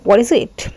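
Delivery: what is it, t of what stopped in the throat; dropped t. Shown as a demonstration. Teacher showing glottal t in what is it. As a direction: swallow the t in what, keep it. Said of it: "what में हमारा टी drop हो जाएगा".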